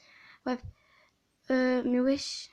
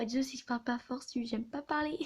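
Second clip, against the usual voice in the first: quiet voice; 5 dB quieter than usual. Real, not acted. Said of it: "Désolée si, pour ma voix".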